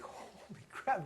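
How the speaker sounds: slow, breathy hushed amazement; stunned and whispering as the order forms stack up; awed whisper. Retold or imitated. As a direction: let it out slowly under your breath. Awed by the mentor's table rush.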